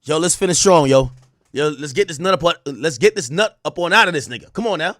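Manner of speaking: lightly voiced coach pep talk; football coach. Imitating a rapper rallying her to finish, light football-coach pep talk. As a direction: urge the team on, a hint of coach. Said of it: "It's like a football coach".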